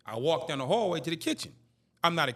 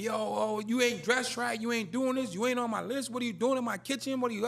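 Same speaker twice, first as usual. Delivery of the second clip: retold yelling; 6 semitones higher than usual. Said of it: "he's screaming at me".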